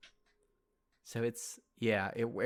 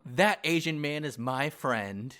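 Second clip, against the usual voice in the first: slow, drawn-out quote of a line; quoting the character; 3 dB louder, much slower than usual. Retold or imitated. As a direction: stretch it out slowly like the character said it. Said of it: "He says".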